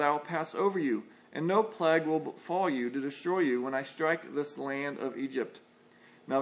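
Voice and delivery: measured, solemn Bible reading; scripture reading. Acted. Preacher reading Exodus to the congregation, solemn scripture voice. Reads Exodus passage aloud.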